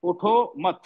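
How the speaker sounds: "उठो मत" said as one unit, then stop; pause after मत. Shown as a demonstration. Teacher shows students where the comma falls, pause after मत. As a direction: hold a break right after "मत". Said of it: "comma लगा दिया मैंने".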